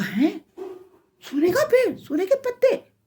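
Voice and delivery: high-pitched, incredulous exclamation; amazed. Acted. Passing man discovers a tree of gold, amazed. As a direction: gasp it out as if finding treasure.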